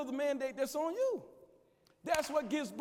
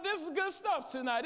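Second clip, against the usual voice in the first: emphatic repeat; 3 semitones higher than usual. Real, not acted. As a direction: drive it home to the congregation. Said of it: "I said".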